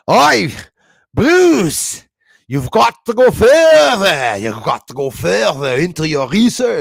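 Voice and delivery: hammed-up, high, loud Scottish shouting; Scottish troll. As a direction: holler like an outraged Scot, stretching the words. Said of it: "I had a Scottish troll here".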